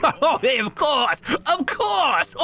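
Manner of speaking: high fawning of course in mock French; bad French accent. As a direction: backpedal sweetly in a cheesy French accent. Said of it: "My French accent is so bad".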